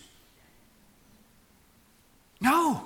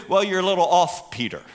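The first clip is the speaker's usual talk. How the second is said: gentle correction; 7 semitones lower than usual. Acted. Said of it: "That's a little more kind".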